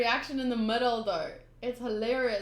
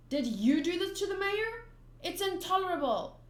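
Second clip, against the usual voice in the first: higher-pitched, mildly outraged; indignant accusation; 6 semitones higher than usual. Acted. Townspeople accusing strangers over the mayor, indignant. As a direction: accuse them with rising indignation.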